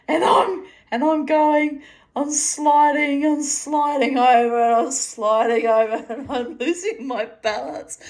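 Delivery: high, loud, laughing re-enactment; losing it with laughter, voice pushed up high; laughing panic. Retold or imitated. Storyteller reliving her yoga wobble, laughing panic.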